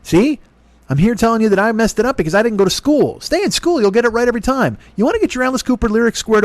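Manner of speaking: preachy adult lecture. Pretend. Mock lecture to a kid.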